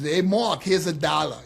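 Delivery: Brooklyn dad impression; lightly voiced father with a Brooklyn accent. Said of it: "my dad talks like this".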